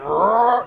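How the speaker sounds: short throaty imitated roar; quick mock roar. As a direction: mimic a charging warrior's roar. Imitates the roaring priest.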